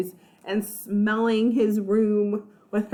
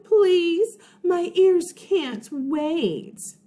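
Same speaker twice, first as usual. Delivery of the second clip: sing-song sneering taunt, higher and drawn out; mocking; 5 semitones higher, slower than usual. Mean girl taunts new kid in class, sneering. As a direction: tease him in a sugary, snide voice. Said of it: "Meredith Mooney laughed".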